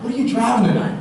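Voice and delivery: perked-up question to a coworker; asking a buddy. Retold or imitated. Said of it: "And I was like".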